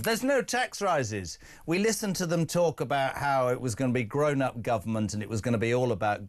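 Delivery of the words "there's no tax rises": slowly mocking "There's no tax rises"; mocking quote. Host mocking the government's promise, slow and scornful. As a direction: drag it out in disbelief. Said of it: "this madness of".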